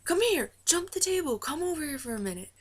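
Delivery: high, swooping call, easing at the end; imitated summoning call. Tour guy calling the star over the table, imitated high call. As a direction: beckon someone over from a distance.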